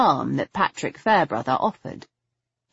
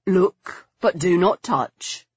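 lightly acted warning with a smile; smiling caution; slower than usual. A narrator's reading. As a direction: caution her playfully. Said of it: "he cautioned with a smile".

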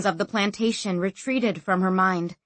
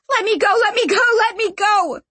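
high, loud frantic repeats; screaming; 13 semitones higher, 6 dB louder, faster than usual. A narrator's reading. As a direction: scream it over and over, struggling. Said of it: "she screamed".

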